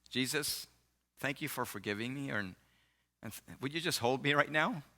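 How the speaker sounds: soft, understated imitation of crying; retold tearful prayer. Fiancée praying to Jesus, soft and mildly tearful. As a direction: pray softly, touched, as her. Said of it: "and she's crying".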